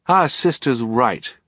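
put-on high, slow girl's voice; firm agreement. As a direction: back her up emphatically. Violet backs sister against Olaf.

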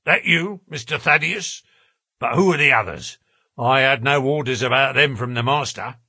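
lightly voiced gruff, wary porter. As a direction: question the visitors with rough suspicion.

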